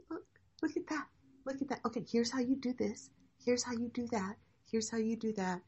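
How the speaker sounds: high, hushed voice of a guide pointing things out; eager guide. Acted. Teacher playing the guide leading students on a journey, high and hushed.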